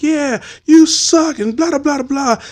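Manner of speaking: high, slow jeering voice; mocking heckler. Heckler jeering at the Deacon, slow mock voice. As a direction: drag out the taunt. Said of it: "he's like".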